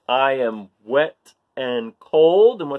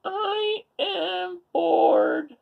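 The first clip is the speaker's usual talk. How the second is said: drawn bored; much slower than usual. Acted. Punchline reversal.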